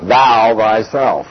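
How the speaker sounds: "thou" slow and weighty, then "thyself"; stress on THOU. Shown as a demonstration. Teacher showing the revisers' rendering, stress on "thou". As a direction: lean slowly on "thou". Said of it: "a strong emphasis on the second word".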